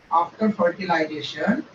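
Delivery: very slow, spaced words to write down; slow dictation. Shown as a demonstration. Teacher dictating English notes, very slow. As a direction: spell out each word for note-taking. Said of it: "slow dictation of notes".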